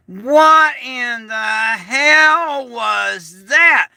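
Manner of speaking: very slow, drawn-out baffled question; baffled neighbours. Retold or imitated. Quoting neighbours in the yard, slow stunned disbelief. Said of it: "everybody ... standing out in the yard going".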